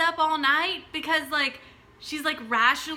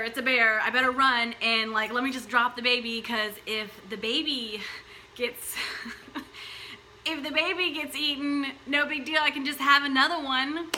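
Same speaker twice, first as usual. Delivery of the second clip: mock calm mother; 4 dB louder than usual. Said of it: "You think a woman's gonna be like".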